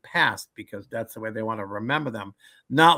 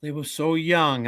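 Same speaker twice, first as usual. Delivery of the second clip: mock sad Sicilian; 4 semitones higher, slower than usual. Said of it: "the Sicilians would be like".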